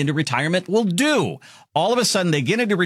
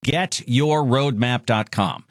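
slow, spelled-out web address; much slower than usual. Acted. Radio ad plug, spelled out slowly.

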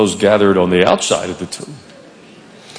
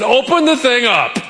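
higher, offhand command; a breezy, higher Jesus voice; casual Jesus; 10 semitones higher than usual. Retold or imitated. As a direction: toss it off like it's nothing.

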